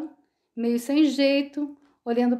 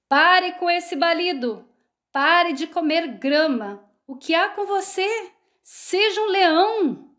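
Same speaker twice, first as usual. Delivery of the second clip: higher, slow furious rebuke; roaring angry lion; 5 semitones higher, slower than usual. A narrator's reading. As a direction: roar at the sheep to wake him up. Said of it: "o leão rugiu para ele". (leão furioso rugindo, devagar)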